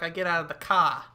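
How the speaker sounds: imitating a Boston accent, "car" as "cah". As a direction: lightly mimic a friend's Boston accent. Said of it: "goes into his Boston accent".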